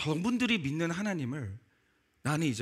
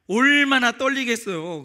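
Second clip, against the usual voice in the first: emphatic exclaim; 6 semitones higher, 9 dB louder, slower than usual. Acted. Preacher imagines prisoner's fear.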